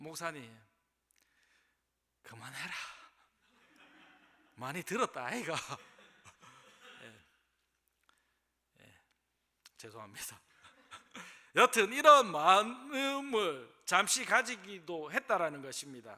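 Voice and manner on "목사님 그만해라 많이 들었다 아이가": low, soft, inward Korean with Busan accent. A preacher voicing what they used to think when pastors preached: Busan dialect. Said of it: "부산 사투리로 어떻게 말할 것 같습니까?".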